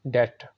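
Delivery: डेट with a silent b, one syllable; डेट, no b sound; correct pronunciation. Shown as a demonstration. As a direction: say डेट as det, slowly. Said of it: "Repeat after me".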